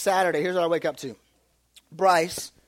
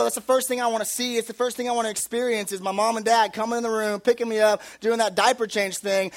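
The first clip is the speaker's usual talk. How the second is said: lightly voiced toddler; 3 semitones higher, 4 dB louder than usual. Son explaining why he calls, playful kid voice. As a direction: speak as the excited little boy. Voicing baby son's thoughts.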